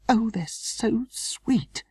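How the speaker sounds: mother cooing at the newborn rats; delighted whisper. A narrator's reading. Whispering beside sleeping babies.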